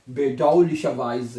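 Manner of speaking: slow syllable-by-syllable. Shown as a demonstration. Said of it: "ये भी आपको पता होना चाहिए".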